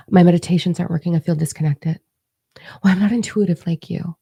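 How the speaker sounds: lightly voiced, hesitant mimicry of excuses; mock excuse-maker. Coach imitating her followers' excuses, mildly mocking. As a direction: mimic someone making feeble excuses. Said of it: "I am done listening to".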